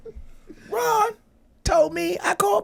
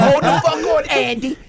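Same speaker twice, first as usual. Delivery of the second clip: lightly voiced goofy white man, louder; mock goofy dude, raised volume; goofy white guy; 4 dB louder than usual. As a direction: do a hint of a goofy guy calling a halt. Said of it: "the big goofy Caucasian man looking at me like".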